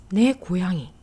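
ねこやぎ with な and え fused into ね; merged vowels. Shown as a demonstration. Teacher shortening "my goat" further, ねこやぎ with merged vowels. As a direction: say ねこやぎ, opening on a single merged ね. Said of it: "とも略せるのです".

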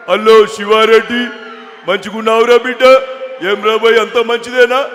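loud, slow hearty Telangana greeting; Hanumantha Rao voice. Retold or imitated. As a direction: greet him like a big-hearted politician. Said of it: "హనుమంతరావు గారి bit". (హనుమంతరావు గారిలా గట్టిగా పలకరింపు)

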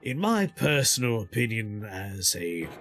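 slow hushed nature documentary narrator; lightly voiced wildlife narrator, slow; Attenborough impression. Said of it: "Can you do an Attenborough impression?".

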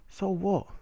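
high, loud dismissive retort; exasperated, incredulous comeback; indignant. Real, not acted. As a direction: throw it back, pitch leaping up.

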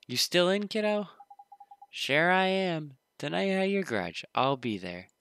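put-on conspiratorial kid plotting.

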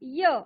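य as the sound that Y makes; letter sound. Shown as a demonstration. Teacher showing children the sound of Y, letter sound य. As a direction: sound out य alone for learners. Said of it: "त्याचा आवाज होतो".

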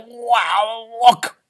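high, bright wow of wonder; a boy seeing snow; excited child. Acted. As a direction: call out amazed. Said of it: "He's like".

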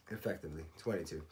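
words stretched through a yawn. Real, not acted. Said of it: "Sorry for that massive yawn".

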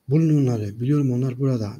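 mild shout. Acted. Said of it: "Narrington bağırarak söyledi".

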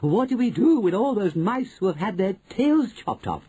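high coven voice; eager witches. Acted. Witches asking about tailless mice, eager. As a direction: question her in a high, put-on voice.

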